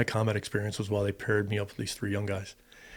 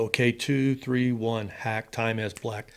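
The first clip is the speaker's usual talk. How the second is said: official brief opener; slower than usual. Shown as a demonstration. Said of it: "from a flight brief, you go".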